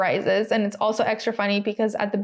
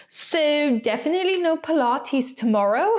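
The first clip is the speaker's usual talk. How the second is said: higher-pitched, badly faked Australian accent; attempted Australian accent; 5 semitones higher than usual. Reading Nicole Piastri's tweet, shaky attempt at Australian accent. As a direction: have a rough go at an Australian accent. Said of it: "supposed to be an Australian accent".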